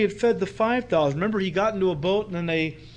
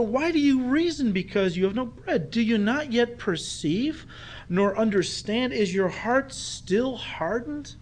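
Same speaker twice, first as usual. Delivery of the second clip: exasperated; 3 semitones higher than usual. Retold or imitated. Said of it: "exasperation in the Lord's voice".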